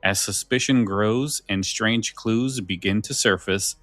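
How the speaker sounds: measured, dramatic trailer narration; trailer read. Acted. Host reading the episode blurb to listeners, spooky promo read. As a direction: tease the mystery like a radio promo.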